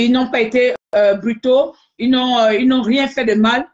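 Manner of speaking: plus fort, exhortation militante en direct. Real, not acted. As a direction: harangue tes partisans avec force. (haranguer fort les manifestants)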